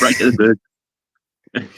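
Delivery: slow catchphrase. Acted. Birdman echoing the host's catchphrase, slow and drawn out. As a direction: drag the catchphrase out slowly.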